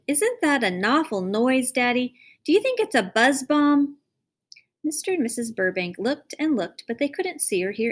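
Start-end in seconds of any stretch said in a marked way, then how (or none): 0.1-4.0 put-on higher child's voice, rising alarm; a small girl anxiously asking her father; little girl voice. Darcy asking Daddy about the noise, higher alarmed child voice.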